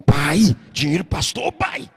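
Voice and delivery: put-on a kid nagging his father, rising toward a squeak; child's voice rising. Boy pestering his dad in church, building pleading. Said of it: "e ele ia aumentando a voz".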